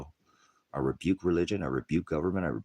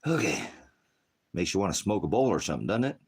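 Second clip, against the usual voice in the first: loud, high sarcastic outburst; suddenly loud and sarcastic; 6 semitones higher, 5 dB louder than usual. Real, not acted. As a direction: burst out mockingly at the audience. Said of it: "Sorry for my outburst".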